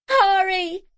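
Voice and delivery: high, loud urgent shout. A narrator's reading. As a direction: yell to hurry. Desperate search.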